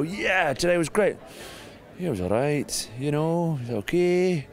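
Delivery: high, flat Scottish impression of a grumpy Andy Murray; lightly done Scottish accent. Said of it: "That was your Scottish accent".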